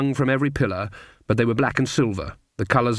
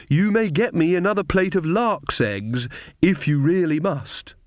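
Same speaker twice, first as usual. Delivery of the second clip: higher-pitched, slow coquette; flirtatious lady; 6 semitones higher than usual. Acted. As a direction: grant it like a grand lady indulging an admirer. Magrat flirts with a count.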